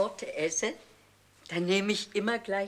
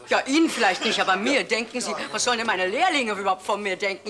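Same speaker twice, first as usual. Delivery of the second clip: louder, quick indignant protest; 4 dB louder, faster than usual. Acted. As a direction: stand up for yourself, offended. Seamstress protests to director.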